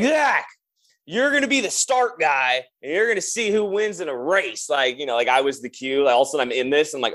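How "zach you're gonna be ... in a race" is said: higher-pitched drunk bandmates, lightly imitated; a hint of excitable lads planning a race; talking like young guys. Drummer imitating tipsy older bandmates proposing a race, higher and youthful. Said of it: "they're talking like they're young again".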